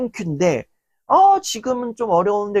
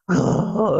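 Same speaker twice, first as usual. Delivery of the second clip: short laugh. Real, not acted. Laughs at own example.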